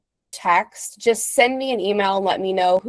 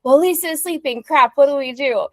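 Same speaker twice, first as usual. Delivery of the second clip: mildly hammed-up fluster, higher in bursts; mock panic; 4 semitones higher than usual. Imagining travelers needing Lisa while she sleeps, mock panic. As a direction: act out a stumbling, mildly panicked client. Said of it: "something that happens and you're like".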